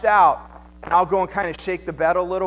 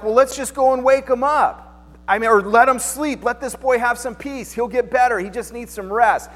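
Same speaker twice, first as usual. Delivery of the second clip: higher and louder, a breezy sing-song; hammed-up disciples shrugging it off; mock disciples; 5 semitones higher, 3 dB louder than usual. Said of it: "the disciples are like".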